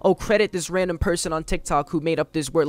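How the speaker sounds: sing-song mocking of a preachy poster; mock a sanctimonious reply; a hint of a preachy scold. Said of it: "you have to say".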